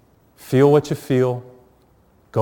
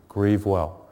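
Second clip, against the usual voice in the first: softer, tender farewell; gentle blessing; 3 semitones lower, 4 dB quieter than usual. Shown as a demonstration. Priest gently blessing those who lost a loved one, softly. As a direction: say it softly, like a prayer. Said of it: "I pray for you".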